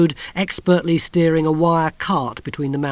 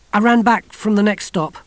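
higher, louder and urgent; breathless Kirsty; 8 semitones higher, 7 dB louder than usual. A narrator's reading. Kirsty at the door after running, urgent.

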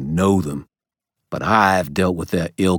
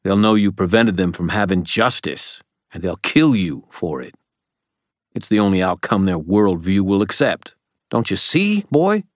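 urgent warning, climbing in pitch and force; desperate; 3 semitones higher, 4 dB louder than usual. A narrator's reading. Old man warning the boy about Mab, increasingly desperate. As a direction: plead harder as the argument builds. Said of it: "his voice desperate".

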